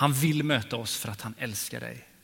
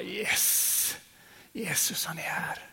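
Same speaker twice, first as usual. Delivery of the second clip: viskat, andäktigt tilltal till Jesus; hänförd viskning; 5 semitones higher, 6 dB quieter, much slower than usual. Retold or imitated. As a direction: viska som i lovsång, överväldigad. Acted worship moment, whispered. (andäktig viskning i lovsången)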